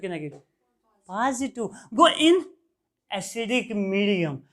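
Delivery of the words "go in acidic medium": very slow, word-by-word dictation; teacher dictating a definition at writing pace; dictating notes. Acted. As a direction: spell it out slowly so the class can write.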